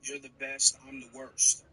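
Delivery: rehearsed recital. Acted. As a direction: recite it like a hostage. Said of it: "just like we rehearsed".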